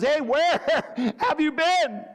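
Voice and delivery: Mary confronting Jesus. Acted. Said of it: "Mary comes up to Jesus and goes".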